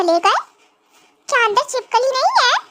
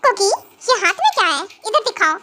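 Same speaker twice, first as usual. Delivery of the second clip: grumpy husband; 6 semitones lower than usual. Acted. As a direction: lower stern husband voice. Husband figure held voice. (नाराज़ पति, हल्की नीची आवाज़)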